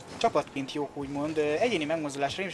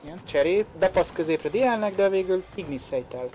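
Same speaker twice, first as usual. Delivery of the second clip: rising, louder play-by-play burst; excited commentary; 3 semitones higher, 5 dB louder than usual. Real, not acted. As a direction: call the attack with urgency. Live goal chance commentary.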